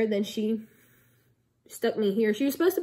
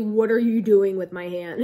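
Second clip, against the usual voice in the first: louder, mock growled demand; low growl; 6 dB louder than usual. Patient re-enacting her demand to the nurse, low mock growl. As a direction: imitate growling it out, loud and firm. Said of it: "in a low, like, growling voice".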